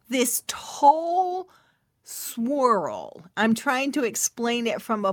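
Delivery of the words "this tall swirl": breathy whispered awe; awed whisper. Real, not acted. Describing the swirl to listeners, an awed whisper. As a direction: hush it like seeing a wonder.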